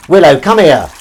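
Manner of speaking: loud, high summons; showy calling. Pretend. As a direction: call the cat on stage like a showman. Calling cat for the audience.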